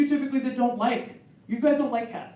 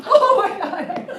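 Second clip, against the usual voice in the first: slow laughing gasp; 11 semitones higher, 8 dB louder, much slower than usual. Retold or imitated. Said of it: "So girls are like".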